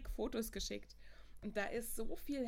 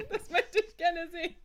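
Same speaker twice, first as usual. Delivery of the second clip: excited laughing; 7 semitones higher, 7 dB louder than usual. Real, not acted. Excited about homemade pen photo.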